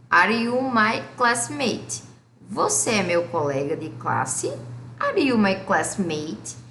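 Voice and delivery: slow, clear English question; slow model question. Shown as a demonstration. Teacher models an English question slowly for students.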